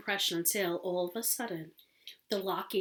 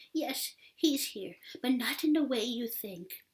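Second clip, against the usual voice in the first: hoarse whisper; 3 semitones higher than usual. Acted. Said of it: "a hoarse whisper".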